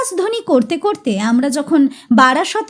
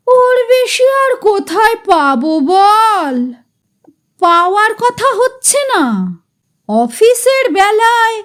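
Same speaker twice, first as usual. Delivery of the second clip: pitiful voice. Acted. Chatujje-da blaming the boys for his ruin, pitiful complaint. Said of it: "করুণ স্বরে বলে".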